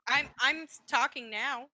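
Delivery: choppy call audio dropping words; radio breaking up. Real, not acted. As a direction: voice cutting out on a bad line. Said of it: "You're cutting out a whole lot".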